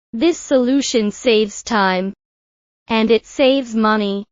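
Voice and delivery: a pause after "time", then "saves" stressed; emphasis by breaking. Shown as a demonstration. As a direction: split it and push "saves". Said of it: "Now repeat after me".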